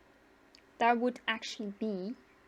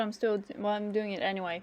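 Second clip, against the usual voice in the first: mouth full; 3 semitones lower, faster than usual. Real, not acted. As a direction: still chewing while talking. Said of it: "talk with my mouth full".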